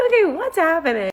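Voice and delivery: high-pitched startled reaction; mock alarm. Reacting as he grabs the scrolling, mock alarmed. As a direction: voice jumps up in retold bewilderment.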